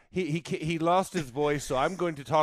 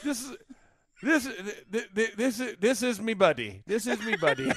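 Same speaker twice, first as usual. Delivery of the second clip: louder, hammed-up Irish accent; 2 semitones higher, 3 dB louder than usual. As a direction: talk like a jolly Irish drinker. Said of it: "that Irish accent".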